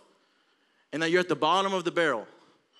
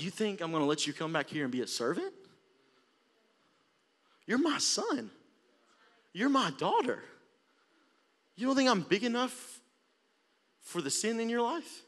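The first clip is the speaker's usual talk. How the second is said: tender father; 3 semitones higher, 6 dB quieter than usual. Acted. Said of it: "look back at him like".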